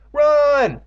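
high, loud drawn-out yell; panicked scream. Acted. Character screams to flee monster.

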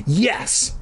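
high, gleeful yes; happy cheer. A narrator's reading. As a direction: cheer it like a delighted kid. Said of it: "Marty cheered happily".

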